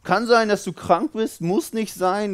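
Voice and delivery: mock wishy-washy doctor, pitch jumping up on the hm; hedging doctor. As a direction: play a noncommittal doctor hemming and hawing. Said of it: "und der sagt".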